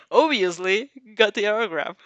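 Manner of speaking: corrects herself through a laugh; giggly self-correction. Real, not acted. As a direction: fixes the word, still giggling. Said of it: "No, oblivious".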